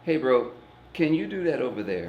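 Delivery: calm, unruffled request after the outburst. Retold or imitated. Man on a bench to the screaming stranger, very calm. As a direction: ask it evenly, like nothing is wrong. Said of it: "I said to him very calmly".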